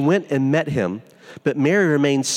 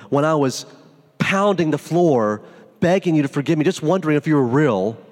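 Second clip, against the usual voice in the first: raised, reproachful pleading; bitter prayer. Retold or imitated. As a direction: press God with the hurt of unanswered prayers. Retold bitter prayer to Jesus.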